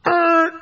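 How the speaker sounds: high, loud yank grunt; effort grunt. Retold or imitated. Therapist grunting while yanking out a patient's chest hair. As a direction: grunt as you pull hard.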